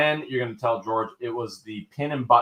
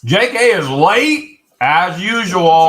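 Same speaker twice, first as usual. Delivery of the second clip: teasing; 5 semitones higher, 10 dB louder, much slower than usual. Real, not acted. Teasing a latecomer.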